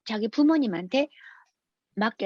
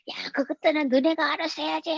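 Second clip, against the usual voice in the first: higher-pitched mock scolding; retold angry retort; 5 semitones higher than usual. Father told to file paperwork snaps back at officials, mock-angry. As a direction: imitate an annoyed father pushing back. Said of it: "화가 나가지고".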